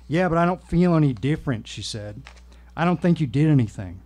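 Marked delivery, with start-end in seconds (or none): 0.1-1.7 put-on lightly Southern-accented complaint; vague Southern accent. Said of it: "a vaguely southern accent". 2.7-4.0 doubting, lightly Southern voice; vague Southern accent. Acted. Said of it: "a vaguely southern accent".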